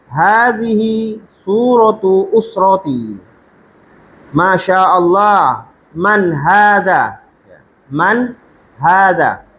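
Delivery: slow, careful Arabic reading aloud; slow dialogue reading. Shown as a demonstration. Teacher reading dialogue slowly to students. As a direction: read each line slowly for learners.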